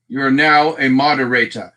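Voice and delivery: "Moderator" in a mock-grand accent, ending on "-ah"; put-on accent with an open final vowel. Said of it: "You don't like that accent?".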